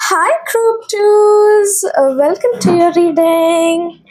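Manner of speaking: slow, breathy whisper of hello; whispered greeting. Acted. Reader whispers a slow hello to group twos. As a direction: whisper hello to them slowly.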